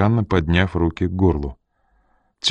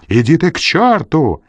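high, angry outburst; yelling; 8 semitones higher, 4 dB louder than usual. A narrator's reading. Ренли storming off to the door, yelling. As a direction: yell it to shut him up. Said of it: "заорал Ренли".

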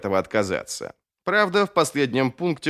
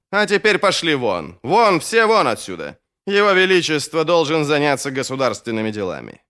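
mildly raised, commanding voice; brusque dismissal; 3 dB louder than usual. Acted. Dismissing tailors and jeweller from His Majesty, brusque and commanding. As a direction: send everyone out, firmly. Attendant orders the tradesmen out.

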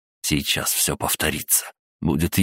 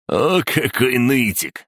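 high, slow jeer; mock the whiner in a drawn-out high voice; derisive, drawn-out taunt; amused mockery; 8 semitones higher, slower than usual. A narrator's reading. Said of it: "засмеялся Сандер".

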